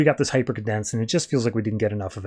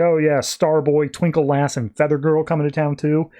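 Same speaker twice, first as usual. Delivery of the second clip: mocking names. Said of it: "makes fun of their names".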